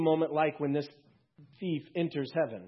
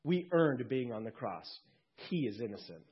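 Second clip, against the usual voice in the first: rebuke. Acted. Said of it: "rebuked him and said".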